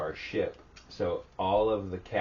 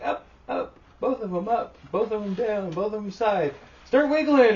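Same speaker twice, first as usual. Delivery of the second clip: high, loud shouted orders; imitated escalating commands; commands from the bridge; 10 dB louder than usual. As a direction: fire off drill orders, building to a yell. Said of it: "they're like".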